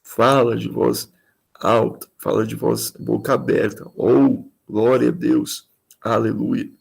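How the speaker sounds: full-voiced glória a Deus, aleluia; expansive preaching. Shown as a demonstration. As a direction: project it to the back of the church.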